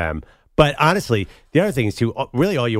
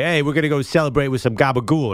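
lightly put-on Jersey Italian accent; thick Italian-American accent; 3 semitones higher than usual. Host showing the quote he wanted to hear, mock Italian-American accent. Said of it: "I wanna hear a thick".

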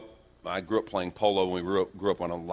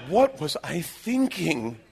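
mock mortification; 7 semitones higher, 3 dB louder, slower than usual. Mortified after mimicking the accent.

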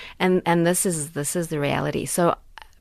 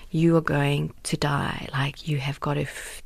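whispered inner voice; slower than usual. Retold or imitated. Inner voice in crisis.

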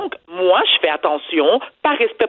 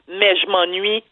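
put-on mother's Haitian accent, lightly done; 3 semitones lower, slower than usual. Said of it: "je vais faire l'accent de ma mère".

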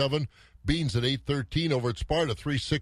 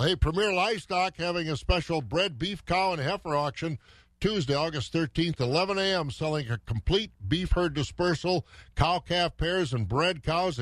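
upbeat radio ad read, a bit higher; 4 semitones higher than usual. Acted. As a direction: sell the auction like a radio spot. Reads a livestock auction ad.

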